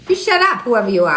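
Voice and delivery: angry retort. Real, not acted. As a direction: bite back at the troll. Snaps back at a commenter.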